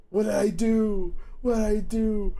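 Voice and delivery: high-pitched mock pleading; pleading boyfriend. His teenage self pleading with online girlfriend, high mock-pleading.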